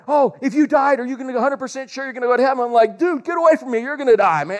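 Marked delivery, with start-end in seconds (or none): 0.1-2.6 higher, rushed mock-earnest question; fast, lightly voiced eager kid; eager street evangelist. 3.0-4.6 higher, mock-annoyed retort; lightly voiced dismissive young man; brushing them off. His younger self brushing kids off.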